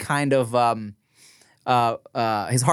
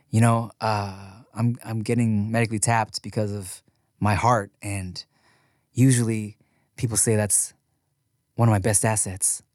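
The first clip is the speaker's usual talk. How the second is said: corny movie quote; 5 semitones lower, 4 dB quieter than usual. Retold or imitated. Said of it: "what kind of fucking corny Lifetime movie quote".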